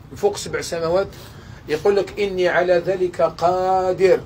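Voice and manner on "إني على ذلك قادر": slow, weighty declaration; solemn slow divine voice. Acted. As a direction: speak as an all-powerful king, unhurried. God's words repeated.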